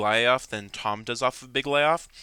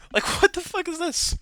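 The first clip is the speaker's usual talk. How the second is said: high incredulous laugh into the question; laughing disbelief. Real, not acted. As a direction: laugh at how absurd it is. Laughing outrage.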